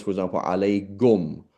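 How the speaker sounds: alaykum said with a g, alagum; voiced demo. Shown as a demonstration. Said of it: "g is a strong".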